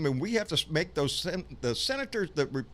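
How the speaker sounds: winded, words broken by breathing; talking while short of breath. Real, not acted. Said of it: "let me catch my breath".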